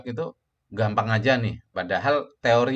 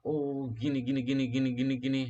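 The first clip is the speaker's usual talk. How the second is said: nice radio voice; 4 semitones higher, faster than usual. Retold or imitated. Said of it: "enak banget suaranya".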